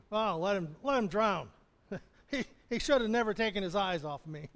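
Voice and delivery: a hint of a careless shrug, laughing; mock dismissive Jesus. Jesus pretending not to care whether Peter drowns, mocking. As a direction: toss it off as if it didn't matter. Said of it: "Does he".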